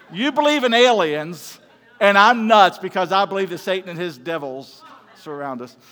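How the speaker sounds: loud, incredulous retort; mock indignation. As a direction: throw it back at them loudly, hammed-up outrage. Incredulous retort to alien-believing friend.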